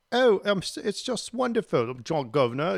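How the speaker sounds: high-pitched fake English accent; mock English accent. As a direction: put on a bad, gushing English accent. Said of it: "talking in this English accent".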